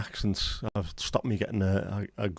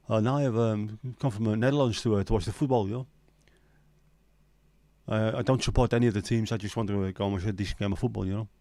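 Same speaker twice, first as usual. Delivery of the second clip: put-on Dutch accent. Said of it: "a Dutch accent has got me".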